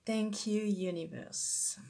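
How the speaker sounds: playful French-accented English, self-mocking. Shown as a demonstration. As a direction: thank the universe in a thick French accent, the second word slow. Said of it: "mon magnifique accent anglais".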